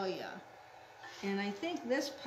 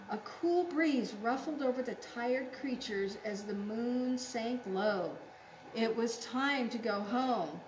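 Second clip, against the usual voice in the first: put-on measured storybook reading for children; story narration. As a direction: read it gently like a picture book.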